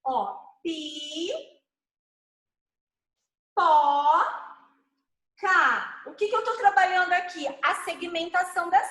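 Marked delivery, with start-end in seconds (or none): 0.6-6.0 pipoca said as separate syllables pi, pó, cá with long pauses; syllables split apart. Shown as a demonstration. Teacher splits pipoca into syllables for the child. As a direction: break pipoca into pi, pó, cá one by one. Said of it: "separar nos pedacinhos".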